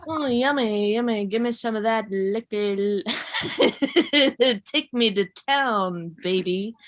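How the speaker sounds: hammed-up yummy catcall; mock lewd come-on. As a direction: play up a greedy come-on, lightly. Acting out a lewd street exchange.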